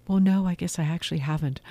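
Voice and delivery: a light, quick imitation of an Italian accent; lightly imitating an Italian intern's accent. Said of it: "in her Italian accent".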